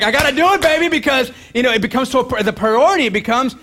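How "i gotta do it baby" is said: higher, louder voice of a tempting distraction; a distraction demanding attention, higher and louder; pushy distraction voice. Retold or imitated. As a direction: play the distraction as a sly pusher. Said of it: "a distraction is like".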